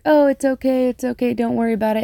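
high, sing-song creepy clown. Retold or imitated. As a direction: soothe her like a sinister clown. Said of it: "And he's like".

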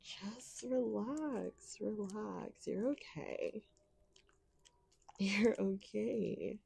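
slow, breathy, drawn-out soothing; teasing reassurance. Acted. Calming a squirming partner, slow teasing reassurance. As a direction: draw each word out to soothe.

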